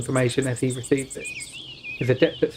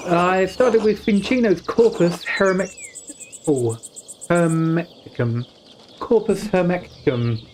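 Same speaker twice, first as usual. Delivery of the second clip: slow, slightly raised scholar; a hint of a bookish scholar; 4 semitones higher, slower than usual. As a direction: read it like an earnest young scholar. Reading scholar character's line.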